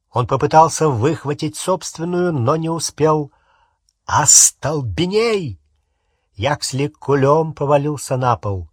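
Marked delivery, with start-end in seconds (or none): 4.1-5.6 loud, drawn-out incantation; shouted spell. Acted. Harry stunning Yaxley, shouting the spell. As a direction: shout the spell with force, stretched out.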